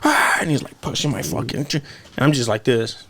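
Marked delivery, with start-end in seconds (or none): 0.1-0.4 high-pitched imitation of an angry outburst; mock angry outburst. Retelling a sparring partner stuck in the guard, mock angry. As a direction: act out his frustration, voice jumping way up. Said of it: "He was getting fucking angry".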